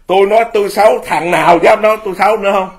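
loud, high defiant dare; defiant challenge. Real, not acted. Monk loudly daring critics to call him bad.

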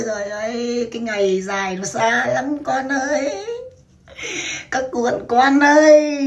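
slow, hammed-up weepy lament; mock mourning. Mother telling her fans to mourn, mock weeping. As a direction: drag it out like a mock funeral wail.

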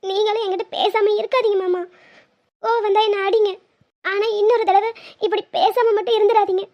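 tearful, sniffling plea; crying. Acted. Wife begs husband never to go silent, crying. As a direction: beg through tears. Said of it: "அழுகையை நிறுத்து".

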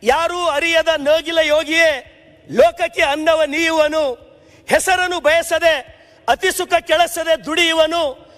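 slow, measured reciting of verse; slow solemn poem reading; poem recitation. Retold or imitated. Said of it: "ರಾಷ್ಟ್ರಕವಿ ಕುವೆಂಪು ಅವರು ರೈತರ ಬಗ್ಗೆ".

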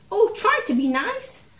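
a big lion squealing like a scared kitten; whimpering lion. Acted. Frightened lion begging the mouse, high whimpering plea. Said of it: "he whimpered".

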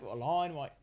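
mock Australian with drawn vowels; Aussie accent. Shown as a demonstration. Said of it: "They just Aussie li".

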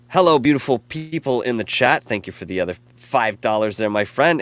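reading a fan message. Retold or imitated. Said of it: "And then".

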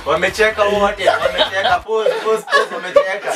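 laughing while talking. Real, not acted. Caught others laughing in game.

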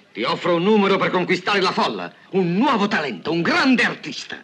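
high, swelling showman's pitch; excited sales pitch. Acted. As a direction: talk up the act with rising enthusiasm. (imbonimento entusiasta)

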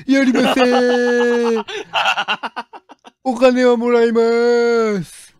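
Kanae impression. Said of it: "カナカナの全力モノマネな".

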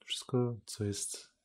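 normal talking voice

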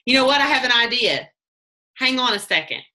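upbeat sales script read with energy; bright eager pitch. Shown as a demonstration. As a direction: sell it like a sudden idea. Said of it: "Write that down".

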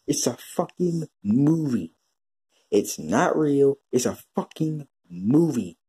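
slow, spaced-out words for emphasis; exasperated insistence. Real, not acted. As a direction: spell it out slowly, fed up.

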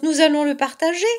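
high, loud, quick cub voice; excited cry. A narrator's reading. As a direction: rush it out loudly in excitement. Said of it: "cria l'autre". (cri excité, rapide et aigu)

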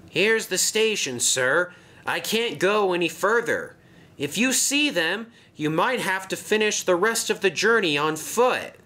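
high eager engine voice; helpful little engine; Thomas. Acted. Thomas tells the boss to go on foot, high voice.

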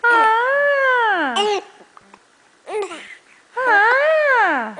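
hiccuping cries; sharp hiccup sounds. Real, not acted. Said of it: "Não tá muito legal, né, esse soluço?".

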